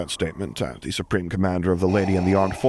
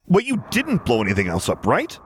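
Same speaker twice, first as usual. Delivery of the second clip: rising sharply into worry; sudden dread, voice climbing; frantic edge; 6 semitones higher than usual. A narrator's reading. Luke suddenly fears Vader wrecked more. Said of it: "a frantic edge to his voice".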